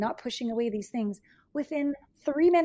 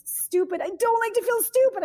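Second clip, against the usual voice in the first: much higher and louder, mock whiny; upset client; 10 semitones higher, 6 dB louder than usual. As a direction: pitch up into her frustrated complaint. Client voices her feeling.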